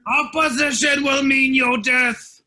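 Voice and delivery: demon threat. Acted. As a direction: bellow the threat.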